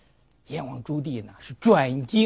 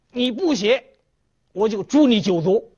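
higher, louder threatening shout; angry threat; 6 semitones higher, 4 dB louder than usual. Acted. Emperor threatening the scholar over the edict, an angry higher shout. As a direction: threaten him with the whole clan's death.

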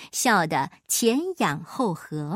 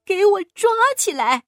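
raised, high-pitched order to guards; loud command; 4 semitones higher, 3 dB louder than usual. A narrator's reading. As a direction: call out the arrest order at volume. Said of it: "大声地说".

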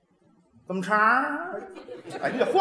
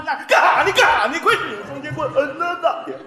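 put-on Northeastern Chinese accent; 4 semitones higher than usual. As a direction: belt it in Northeastern dialect. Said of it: "东北话唱出来".

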